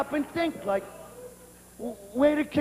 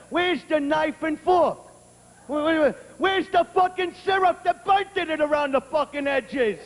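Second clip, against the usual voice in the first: mock-angry child's tirade, pitched up; indignant kid demanding; 3 semitones higher than usual. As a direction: badger him like a tiny tyrant. Kid berating man over waffles.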